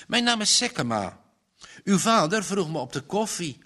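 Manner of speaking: bow and present yourself; gallant introduction. A narrator's reading. Salesman introduces himself to young woman, gallant. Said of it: "terwijl hij galant boog".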